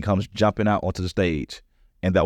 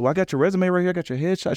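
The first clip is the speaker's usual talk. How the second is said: mock recruiter; 10 semitones higher, faster than usual. The speaker insists she has his resume.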